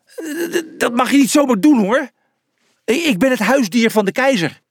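high, stammering indignation; stuttering, affronted complaint; indignant protest. A narrator's reading. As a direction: splutter in high-pitched outrage. Zebra indignantly protests to guard.

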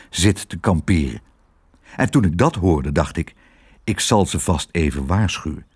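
lightly voiced low dog; a hint of a sheepish, earnest dog; confiding police dog.

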